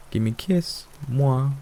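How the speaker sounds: high-pitched pet bird voice; parrot mimicry. A narrator's reading. Parrot imitates a bird he saw online, squawky. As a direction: bird parroting a cute phrase. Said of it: "imitating a bird he saw online".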